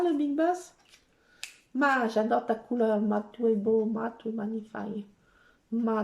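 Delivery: ordinary talk, nothing marked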